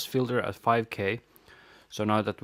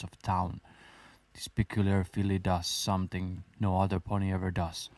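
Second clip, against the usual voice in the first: story narration; 3 semitones lower than usual. Acted. Reads fan fiction aloud.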